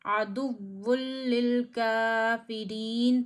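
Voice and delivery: आदुव्वुल लिल काफिरीन merged with no nasal; no ghunna. Shown as a demonstration. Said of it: "ज़रा भी गुन्ना नहीं करेंगे". (बिना गुन्ना के पढ़ना)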